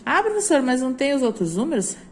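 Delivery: put-on high, loud child voice asking the teacher; pupil's question. Teacher voicing a pupil asking the professor. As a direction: play an eager pupil calling out. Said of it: "voicing a pupil's question".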